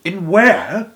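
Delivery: high, loud eager question; cried out. A narrator's reading. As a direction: Charlie cries out, burning to know. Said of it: "cried Charlie".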